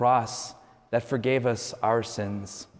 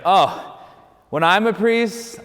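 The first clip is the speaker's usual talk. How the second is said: mock-indignant, pitched high and drawn out; indignant vow; 6 semitones higher, 4 dB louder, slower than usual. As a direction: act out a self-righteous young seminarian, voice raised. Acting seminarians' indignant vow.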